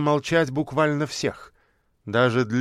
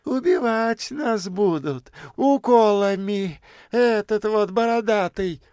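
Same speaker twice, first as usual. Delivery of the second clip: высоко и медленно, обвиняюще; ткни словами в бородатого; злая бомжиха; 8 semitones higher than usual. A narrator's reading. Бомжиха зло обвиняет профессора. (маленькая бомжиха обвиняет профессора, зло)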